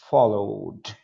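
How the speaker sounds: "Followed" said as one syllable, ending in a clear d; teacher models "Followed" with no extra vowel; pronunciation demo. Shown as a demonstration. Teacher shows students how to say it, a clear "Followed". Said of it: "Olha a pronúncia".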